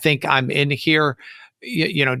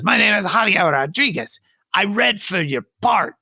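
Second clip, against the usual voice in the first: imitated Hispanic accent, pitched up; higher, put-on Hispanic voice; 6 semitones higher than usual. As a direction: play a little fella with a Hispanic accent. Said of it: "real short little Hispanic fella".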